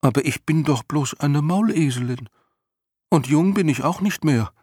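hohe, fremd klingende Tierstimme, verlegen abwehrend; Mauleselin, bescheiden. Acted. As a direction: die Mauleselin wehrt verlegen ab, deutlich höher. (deutlich höhere Tierstimme, verlegen und etwas lauter)

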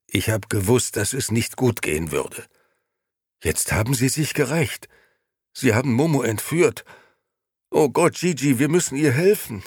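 rising from worried to high, loud alarm; growing panic. A narrator's reading. Gigi panicking to Beppo about Momo's kidnapping. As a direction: build toward frantic.

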